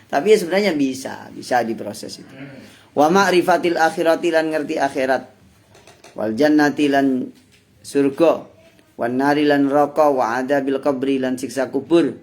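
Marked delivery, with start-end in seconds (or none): 2.9-12.1 measured pesantren reading, Arabic phrase then Javanese meaning; kitab recitation with gloss. Acted. Teacher reading kitab to congregation, measured recitation. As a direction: recite and translate line by line.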